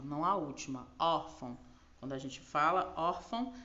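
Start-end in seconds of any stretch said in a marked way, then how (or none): 1.0-1.6 "Órfão" with a firm first syllable and lighter ending; stress on ÓR. Shown as a demonstration. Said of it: "o or tem a". 2.9-3.5 "órfão" with the weight on the first syllable; stress on ÓR. Shown as a demonstration. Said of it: "o som maior".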